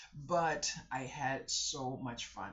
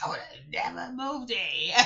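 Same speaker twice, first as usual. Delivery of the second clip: chuckling out the last words, louder; laughing through words; 7 semitones higher, 13 dB louder than usual. Real, not acted. Telling viewers what she told the neighbor, laughing. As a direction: let the laugh spill into the line.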